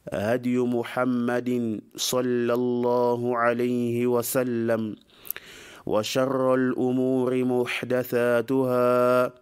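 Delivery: recited sermon opening, evenly paced; formal Arabic invocation. Acted. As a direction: intone it solemnly, stretching the long vowels.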